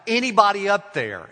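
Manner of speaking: the hiker yelling up the cliff again. A narrator's reading. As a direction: yell up as loud as you can. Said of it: "He yells out".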